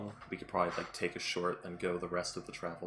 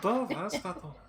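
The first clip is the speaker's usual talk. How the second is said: name yelled louder over wind; shouting over wind; 10 semitones higher, 4 dB louder than usual. Acted. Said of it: "I can't hear you over the wind".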